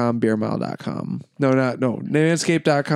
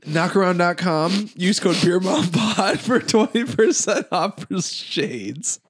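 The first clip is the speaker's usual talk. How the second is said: ad read; 4 semitones higher, slower than usual. Acted. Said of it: "That's a good ad read spot".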